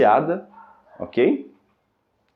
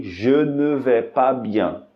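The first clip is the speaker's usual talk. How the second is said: "Je ne vais pas bien" slow but joined; slow connected demo; slowed whole phrase; much slower than usual. Shown as a demonstration.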